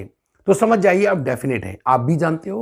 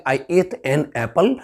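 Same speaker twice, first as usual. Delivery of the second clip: Indian English; much slower than usual. Shown as a demonstration. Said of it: "Indian accent में बोलेंगे".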